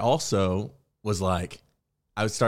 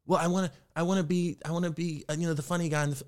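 imitating hesitant actor; 8 semitones higher, faster than usual. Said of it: "Who do you wanna be?".

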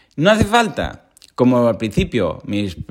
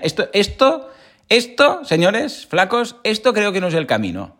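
voicing Buddha with a much higher pitch, telling the skinny ascetics this isn't the way; mock Buddha protest; 8 semitones higher than usual. Buddha, fed up, tells the starving ascetics it's not the way, in a much higher voice. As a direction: pitch jumps way up on the repeated esto, like a fed-up sage.

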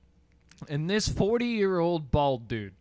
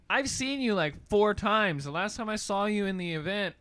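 higher-pitched, lightly voiced complaint; mildly indignant woman; 6 semitones higher than usual. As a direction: imitate a woman calling someone out, a bit put out.

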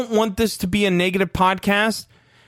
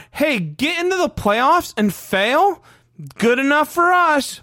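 mock complacent fan; 8 semitones higher than usual. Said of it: "our standards for the Bears are".

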